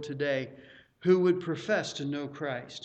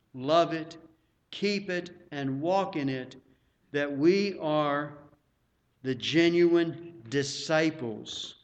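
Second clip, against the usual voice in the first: slow, measured quote with pauses; reading a quotation; slower than usual. Acted. Preacher quotes nineteenth century theologian to church, slow deliberate reading. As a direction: deliver it phrase by phrase, weightily.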